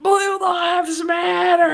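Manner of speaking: drawn-out sarcastic slogan; mock slogan. Mocking a bumper slogan.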